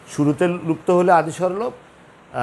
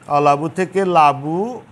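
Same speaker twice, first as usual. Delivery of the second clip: slow demo; slower than usual. Shown as a demonstration. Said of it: "যেমন অলাবু".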